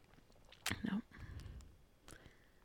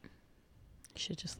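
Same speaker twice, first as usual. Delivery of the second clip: slow, breathy joking whisper; whispered aside; 21 dB quieter, much slower than usual. Real, not acted. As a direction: toss it off under your breath. Joking aside about thugs.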